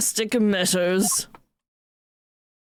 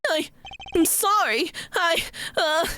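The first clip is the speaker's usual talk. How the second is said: timid son; 11 semitones higher than usual. Acted. Timid son voiced before father.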